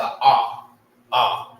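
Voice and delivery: a broad open ah; long open ah vowel; strong ah. Shown as a demonstration. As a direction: open the mouth wide for a strong ah. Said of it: "a strong ah".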